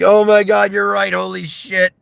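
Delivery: high, excited exclamation; amused amazement. Retold or imitated. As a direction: exclaim it high, on the edge of laughter. Repeats amazed reaction, laughing.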